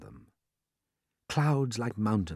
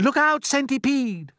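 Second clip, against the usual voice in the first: high, loud slow warning; crying out; 6 dB louder than usual. Acted. James warning the dancing centipede, loud and high. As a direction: call out in alarm. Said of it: "cried James".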